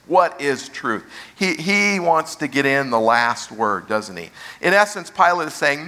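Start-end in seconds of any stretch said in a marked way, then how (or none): 0.1-1.0 understated cynical question, falling at the end; a touch of fatalism; cynical and fatalistic. Acted. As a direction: say it as the last word, expecting no answer. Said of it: "Pilate's response is cynical and fatalistic".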